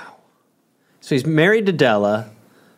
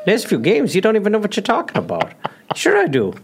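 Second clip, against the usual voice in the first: comic argument; 5 semitones higher than usual. Pretend. Improvised manager and owner argument.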